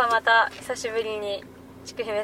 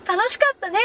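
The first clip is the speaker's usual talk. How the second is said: loud-ish tipsy voice; 8 semitones higher than usual. Retold or imitated. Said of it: "割と大きめの声で".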